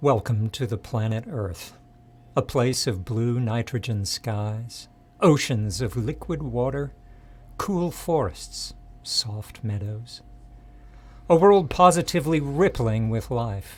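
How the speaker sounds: soft, hushed, almost monotone, level, even reading. Reading a script after a coach's direction: soft, almost monotone. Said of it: "This should be soft and almost monotone".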